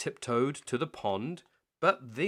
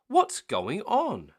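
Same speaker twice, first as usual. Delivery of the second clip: slow, louder puzzled question; puzzled animals; 5 semitones higher, 6 dB louder, slower than usual. Acted. Animals to each other, slow puzzled question. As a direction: ask it slowly, baffled.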